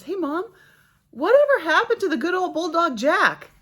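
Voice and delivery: put-on high piping child voice; little daughter. Mom quoting her five-year-old daughter asking about the dog, high child voice. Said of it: "pipes up and says".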